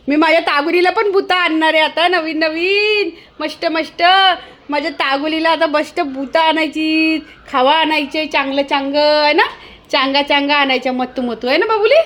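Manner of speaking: cooing sing-song with stretched endings. Real, not acted. Owner promising a pet new things, doting baby talk.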